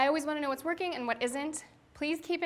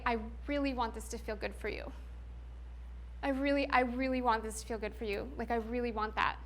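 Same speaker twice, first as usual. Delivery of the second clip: softer, earnest and gentle; sincere reassurance; 4 dB quieter than usual. Shown as a demonstration. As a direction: reassure her that her pleasure matters. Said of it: "what works instead is to come and say".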